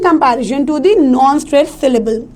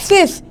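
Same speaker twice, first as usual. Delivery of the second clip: सिस set apart, pitched higher; stressed syllable; 5 semitones higher than usual. Shown as a demonstration. Teacher isolating सिस to show its vowel, stressed high. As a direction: lift and stress सिस by itself. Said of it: "आई पे देना है stress".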